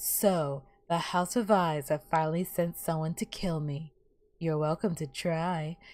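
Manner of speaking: low, soft, hot, sultry voice. Speaker quotes a character whose voice she loves, imitating the spider lady's hot voice. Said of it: "her voice is so hot".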